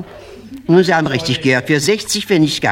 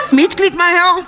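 much higher, prissy doorman; a snooty doorman greeting a new guest; prim doorman; 12 semitones higher than usual. Acted. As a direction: ask like a snooty club porter. Club doorman asks.

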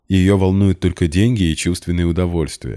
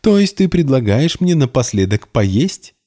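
much higher, sneering question; mock him nervously; nervous sarcasm; 9 semitones higher, 4 dB louder than usual. A narrator's reading. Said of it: "нервно расхохоталась". (нервно и язвительно, намного выше)

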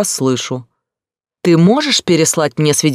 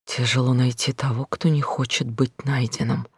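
soft, hollow repetition to herself; quiet echo; 6 dB quieter than usual. Acted. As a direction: murmur his words back, numb. Heroine repeating brother's words.

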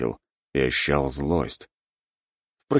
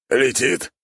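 surprised rat lord; 10 semitones higher, much slower than usual. A narrator's reading. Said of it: "удивился владыка".

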